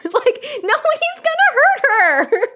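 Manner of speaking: high-pitched, giggling protest; real squealing laughter in the words; laughing. Real, not acted. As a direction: say it through a laughing fit. Cracks up over the scene.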